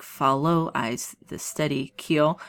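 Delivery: slow, every other syllable stressed, follow eyes the steady keel; slowed, sing-song iambic line; metered reading. Shown as a demonstration. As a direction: read it so the iambic beat shows. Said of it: "you hear it in lines like".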